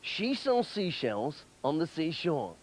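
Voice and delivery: slow, careful diction drill; tongue twister demo. Shown as a demonstration. Coaching a friend's diction with a slow tongue twister. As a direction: lay out each sound slowly for him to copy. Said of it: "Try this".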